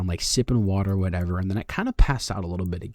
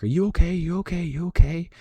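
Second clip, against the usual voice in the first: high, loud, panicked repeated checking; high-pitched mock panic; freaking-out girlfriend; 10 semitones higher, 6 dB louder than usual. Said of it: "she kinda starts freaking out".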